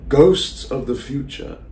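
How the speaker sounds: slow, drawn-out theatrical invocation; hushed-night monologue, stretched and deliberate; lonely Salieri, invoking the audience. Acted. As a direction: summon unseen ghosts slowly, with long pauses. Rehearses monologue in character.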